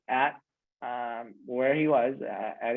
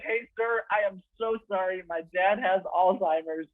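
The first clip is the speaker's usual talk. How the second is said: flustered apology; 6 semitones higher than usual. Retold or imitated. Son apologizing to employee.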